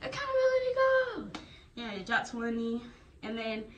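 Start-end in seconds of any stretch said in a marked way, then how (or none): 0.0-1.3 high mock drill shout, rising higher; imitating a drill instructor, much higher; drill instructor call. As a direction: chant it like a drill sergeant. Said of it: "So he's gonna be like".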